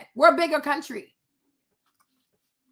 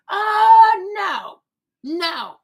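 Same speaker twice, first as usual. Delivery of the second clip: high, loud mock-posh British "Oh"; a sudden hammed-up British exclamation; 3 semitones higher, 6 dB louder, much slower than usual. Mocking the British accent.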